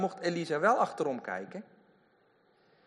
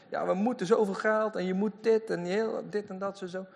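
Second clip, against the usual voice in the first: lightly voiced, higher pushy TV preacher; mock TV evangelist; 6 semitones higher than usual. Preacher mocking a TV evangelist demanding money. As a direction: mimic a pushy American televangelist. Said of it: "Amerikaanse shows zie je dat wel eens".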